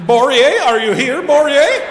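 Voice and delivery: high, loud call into a crowd. Pretend. Comic hunts the audience for Borje, loud high call. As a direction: holler a name high, as if searching.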